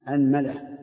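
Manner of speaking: أنملة as anmala, open a on both; أنملة: a-nma-la; fatha on hamza and meem. Shown as a demonstration. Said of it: "افتحه مع فتح ال-، الهمزة".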